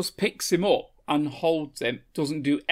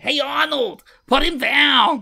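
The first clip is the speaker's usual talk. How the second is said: high, loud mock protest; calling out; 10 semitones higher, 7 dB louder than usual. Bystander tells Arnold to release the man, high acted shouting. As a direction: holler at him in an acted panic.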